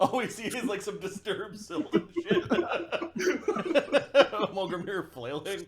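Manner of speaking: high laughing description. Real, not acted. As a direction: laugh while you describe it. Player laughing at scene.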